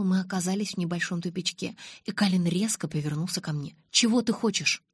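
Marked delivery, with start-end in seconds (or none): 3.9-4.8 sharp, higher and louder annoyed question; irritated snap, raised pitch. A narrator's reading. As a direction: snap at her, fed up. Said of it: "раздражённо спросил он".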